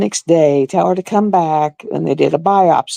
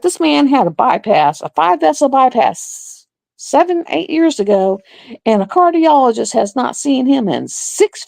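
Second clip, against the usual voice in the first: retold livid argument; 8 semitones higher than usual. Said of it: "I was getting livid".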